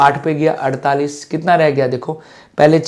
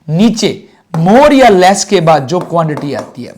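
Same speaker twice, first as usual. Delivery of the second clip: slow emphasis; 5 dB louder, slower than usual. Shown as a demonstration. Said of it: "क्या बोला मैंने".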